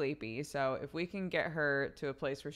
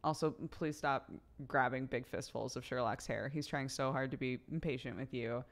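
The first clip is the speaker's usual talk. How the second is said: put-on tender talk to baby; 3 semitones lower, faster than usual. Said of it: "Just say, like".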